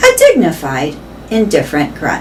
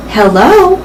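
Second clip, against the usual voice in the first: put-on a young elephant's voice, a bit higher and louder; small clear voice; 5 semitones higher, 3 dB louder than usual. A narrator's reading. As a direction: pipe up brightly like a little girl. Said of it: "says a small, clear voice".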